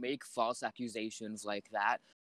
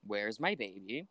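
intimidating; 5 semitones lower, slower than usual. Acted. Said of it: "in an intimidating voice that I'm incapable of doing".

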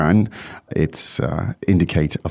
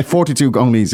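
laughing through the words; chuckling at the joke as it comes out; 3 semitones higher than usual. Real, not acted. Teacher laughing at his own Gong Li joke, laughing. Joking about forty-two Gong Lis.

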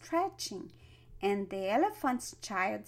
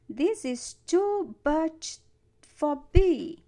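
nasal and louder, straining; through his nose; 5 semitones higher, 6 dB louder than usual. A narrator's reading. Elephant's child with a stretched nose, nasal and straining. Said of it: "he said through his nose".

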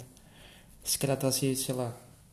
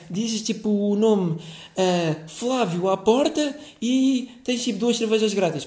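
promoter pitch; 5 semitones higher, slower than usual. Retold or imitated. Mimics pestering club promoter's pitch.

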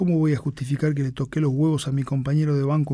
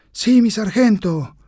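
loud unison reply; 7 semitones higher, 5 dB louder, slower than usual. Acted. Recruits answer in unison.

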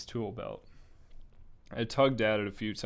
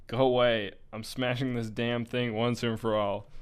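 put-on a girl yelling loud into the radio, fed up; louder, snap it out and mean it; angry yell; 4 dB louder than usual. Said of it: "even if it was currently yelling at me".

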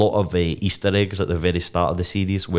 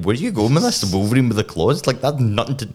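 higher-pitched baffled protest; mock incredulous; 4 semitones higher than usual. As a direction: question it in disbelief. Acts out own bafflement at co-host.

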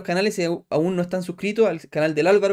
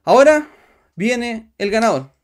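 announcer voice; 4 semitones higher, 7 dB louder, slower than usual. Real, not acted. Announcing the contest winner.

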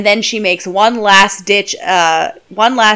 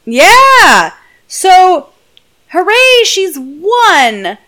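mock cheer; 8 semitones higher, 4 dB louder, much slower than usual. Real, not acted. Mock celebration.

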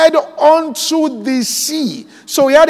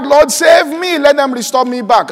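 raised-pitch imitated plea; lightly acted crying out, higher at the start; mock cry for help; 4 semitones higher than usual. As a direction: call out a pretend plea to God. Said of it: "you cry out".

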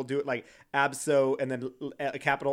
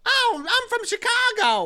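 high, loud mock diva taunt; over-the-top reality TV girl brag; mock reality star; 10 dB louder, slower than usual. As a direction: ham up a reality-show diva squaring off. Mock reality show confrontation.

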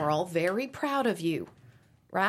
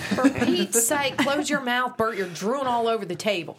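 exasperated scolding; 4 semitones higher, 3 dB louder than usual. Acted. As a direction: snap at him in exasperation. Mom scolding drooling husband.

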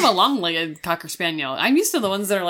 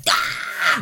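mock cry. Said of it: "I'm like".

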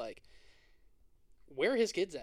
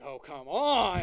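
higher and louder, a fed-up "oh, come on"; mock exasperation, pitched up and loud; exasperated protest; 4 semitones higher, 6 dB louder, much slower than usual. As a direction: act out a friend's disbelief, voice pushed up. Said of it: "he's like".

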